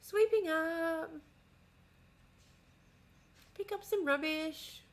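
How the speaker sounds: quiet, slow chores voice; unsmiling narration of housework; flat chore mutter. Pretend. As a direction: mumble the chores to yourself, no show. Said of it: "walking around their house like".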